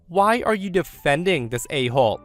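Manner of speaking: imitating a snobbish sneer, half-shouted; retold shout. Karen berating the caterer on the phone, mock angry. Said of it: "She shouts and says".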